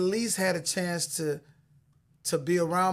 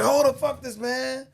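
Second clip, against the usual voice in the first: high, loud imitation of a rowdy young man; mock a disrespectful kid cussing loudly; 8 semitones higher, 6 dB louder than usual. Disrespectful young man cussing at the store, loud. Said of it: "all the cussing loud".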